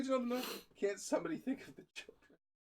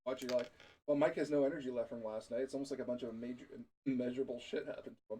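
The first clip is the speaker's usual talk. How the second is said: echoey voice through a glass; talking into a glass for echo; 4 semitones lower than usual. Real, not acted. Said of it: "Are you talking into a glass?".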